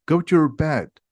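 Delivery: angry. A narrator's reading. Ron orders Hermione back to bed, mildly angry. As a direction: send them off with some irritation. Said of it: "says Ron angrily".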